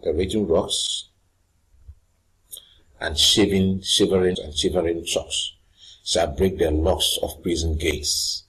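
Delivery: lofty recitation; dramatic verse reading. Acted. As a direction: read it out like a stage tyrant. Reading Shakespeare verse aloud.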